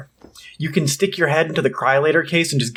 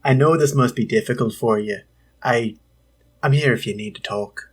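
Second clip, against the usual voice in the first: weak, lower-pitched attempt at Kate's accent; 3 semitones lower than usual. Co-host offering comfort as Kate, feeble accent attempt. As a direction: have a half-hearted go at Kate's accent. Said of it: "You wanna try it in her accent?".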